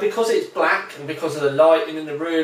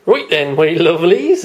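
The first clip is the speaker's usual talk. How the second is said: put-on jolly West Country accent greeting; broad West Country accent, hearty; 4 dB louder than usual. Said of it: "in my best West Country accent".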